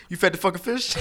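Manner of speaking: disbelieving dad scolding his son; imitating a stunned angry father; mock outrage.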